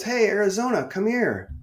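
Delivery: high-pitched, hearty mock call; Mike Ditka. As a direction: imitate a coach calling someone over. Ditka calls him over.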